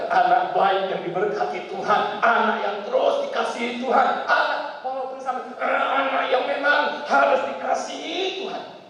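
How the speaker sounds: blessing said with a touch of irritation; slightly annoyed blessing. Retold or imitated. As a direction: bless grudgingly. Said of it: "nadanya agak kesal". (berkat dengan nada agak kesal)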